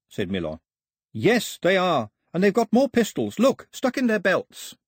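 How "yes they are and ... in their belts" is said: put-on high-pitched girl's urgent warning; high voice, pressing the accusation; Daphne, urgent. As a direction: warn them in a high, insistent voice.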